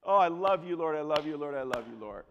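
overflow with relieved praise; mock ecstatic gratitude; gushing praise. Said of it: "I'm like".

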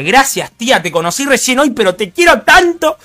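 hammed-up tearful gratitude rising to a falsetto; mock-sentimental thanks. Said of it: "yo la miré y dije".

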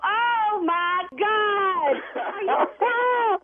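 shocked, flustered exclaiming; flustered disbelief. Real, not acted. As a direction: caught off guard, disbelieving. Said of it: "you got me flustered".

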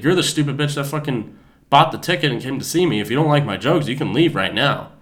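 mildly heated, imitating a fed-up performer; retold angry comeback. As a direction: tell off a heckler, secondhand. Retold comedian tells off a heckler.

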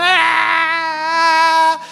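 long, high, loud mock bawl; ugly crying, imitated. Preacher imitating the young man at the altar, ugly mock crying. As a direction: wail hideously, hammed-up and drawn out. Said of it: "chorou daquele jeito feio".

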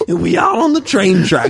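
badly held British accent; British slipping into hillbilly. Cohost telling guitar yarn, British turning hillbilly. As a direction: let British slide into hillbilly twang. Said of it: "slowly transitioning into a hillbilly".

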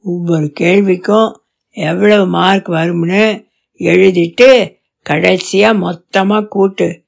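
steady and firm, a father setting the rules. Acted. Father tells daughter to grade her own paper, low and firm. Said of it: "அப்பா தொடர்ந்தார்".

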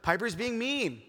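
a hint of a kid telling on a sibling; Phoebe. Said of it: "And Phoebe's like".

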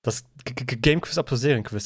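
stammered announcer jingle; stuttering jingle intro. Acted. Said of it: "das ist der Einspieler".

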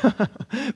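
high, short forced chuckle; angry smiling laugh. Retold or imitated. Smiling while really angry, forced laugh. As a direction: imitate laughing through anger. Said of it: "I've got a smile on my face".

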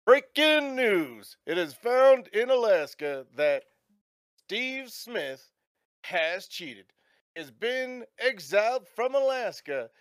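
slow, announcing news voice; radio news read. Acted. Radio announcer reading the news to the travellers in a slow, formal read. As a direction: read it like a breaking news bulletin.

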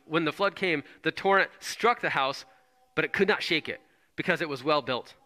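preacher reading the words of Jesus with feeling; dramatic scripture reading. Acted. Preacher to crowd, reading Jesus' warning with feeling. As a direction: lift it as a proclamation, then let the end fall away.

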